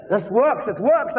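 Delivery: rising, excited discovery. Retold or imitated. Evangelist seeing his preaching work, getting excited. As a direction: repeat it with climbing pitch and excitement. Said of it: "I got, I got excited".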